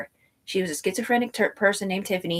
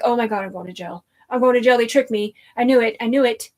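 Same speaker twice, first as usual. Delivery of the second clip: inner panic; 6 semitones higher, 5 dB louder than usual. Retold or imitated. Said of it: "in my head".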